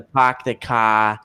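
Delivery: put-on Boston accent. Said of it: "Not everyone talks with the".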